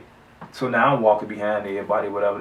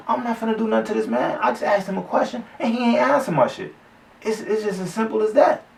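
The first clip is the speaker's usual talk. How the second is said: laughing protest; 10 semitones higher than usual. Real, not acted. Laughing defending himself.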